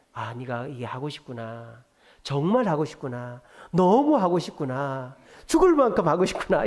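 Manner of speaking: escalating empathy. Shown as a demonstration. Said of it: "이 정중한 거절이라는 거예요".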